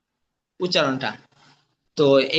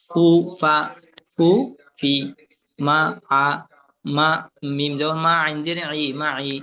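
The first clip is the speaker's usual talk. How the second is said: level chant of syllables and letter names; spelling drill recitation. Shown as a demonstration. Teacher drilling letter sounds for students, chanted recitation.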